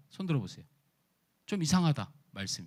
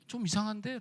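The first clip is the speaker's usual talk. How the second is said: puzzled; 4 semitones higher, 5 dB quieter than usual. Pretend. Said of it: "얼굴 표정에".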